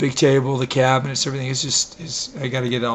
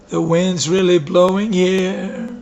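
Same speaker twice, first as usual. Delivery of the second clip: drawn-out playful repeat; 5 semitones higher, 6 dB louder, slower than usual. Real, not acted. Repeats remark, louder slower.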